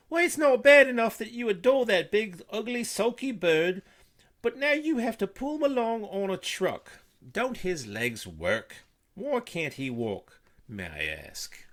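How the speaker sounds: very high, loud, scornful scolding; scolding Martha. A narrator's reading. Mother berating daughter over the bird, high and loud. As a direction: scold the girl with contempt.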